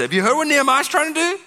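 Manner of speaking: very high, loud, whining gossip; gossipy conspirator. Acted. Sanballat whispering to Geshem, shrill gossip. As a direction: dish the rumour squeakily.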